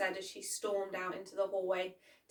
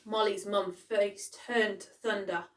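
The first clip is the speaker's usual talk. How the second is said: usual speaking voice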